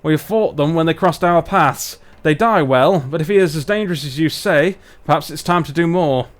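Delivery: lightly done northern English dwarf; measured speech in a put-on Barnsley accent. Dwarf tells of fighting the invaders, light Barnsley accent. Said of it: "let's do our dwarves from Barnsley".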